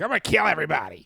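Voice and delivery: fast, hammed-up threat; mock violent outburst. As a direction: blurt it out like a mock rampage. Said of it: "Dudes are just like".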